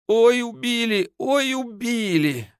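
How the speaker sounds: high, slow howling lament; wailing. A narrator's reading. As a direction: howl it out over the body. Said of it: "стоял на коленях Костка и выл".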